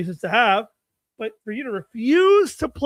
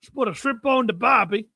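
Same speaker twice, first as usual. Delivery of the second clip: put-on terrible Australian accent; 2 semitones higher than usual. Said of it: "It's a terrible in-, Australian accent".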